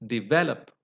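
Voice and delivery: develop with stressed VEL; accented on the root. Shown as a demonstration. Teacher lists weak-prefix words, develop stressed on VEL. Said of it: "accented on the root".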